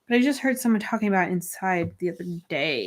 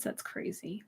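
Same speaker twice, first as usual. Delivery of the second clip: whispered; 17 dB quieter than usual. Real, not acted. Stream has run two hours.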